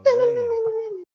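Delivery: high shouted oh; loud cry. Real, not acted.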